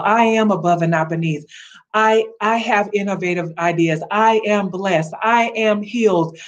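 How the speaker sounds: confident declaration voice; spoken declarations. Shown as a demonstration. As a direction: declare each line like a faith decree. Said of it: "Make some declarations".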